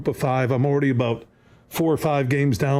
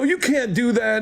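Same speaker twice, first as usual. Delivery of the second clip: retold angry protest, pitched up; imitated anger; 9 semitones higher than usual. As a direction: hurl it back at him, higher and heated. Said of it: "I get up and I'm mad".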